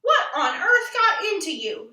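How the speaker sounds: words breaking through leftover laughter; mother holding back laughter; laughing. A narrator's reading. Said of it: "managed to stop laughing".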